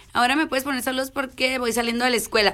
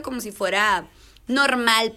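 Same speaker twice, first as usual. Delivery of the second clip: normal talking voice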